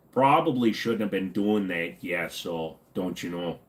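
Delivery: put-on light Midwestern accent, low and easy. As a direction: put on a mild Midwest folksy lilt. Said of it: "people that talk like".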